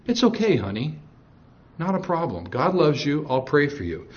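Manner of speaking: soft, sugary reply with nothing behind it; sugary Satan. Retold or imitated. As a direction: sound sweet and kind, but hollow. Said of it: "That's how Satan would respond".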